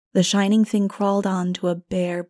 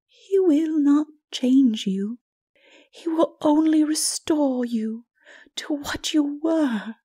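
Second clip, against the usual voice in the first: higher, slow, earnest plea; gentle Mara; 8 semitones higher, slower than usual. A narrator's reading. Mara assures Lilith she will only be restored, earnest. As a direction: reassure her patiently.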